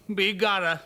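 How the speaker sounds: loud Irish Begorra; Irish exclamation. Acted. Rescued man exclaiming, Irish. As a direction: exclaim it with a brogue. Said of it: "Irish exclamation".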